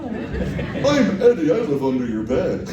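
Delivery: put-on creepy kids' show host, slow and drawn out; creepy playful under bed whisper. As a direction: greet the kids like a sinister clown. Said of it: "your kid show thing".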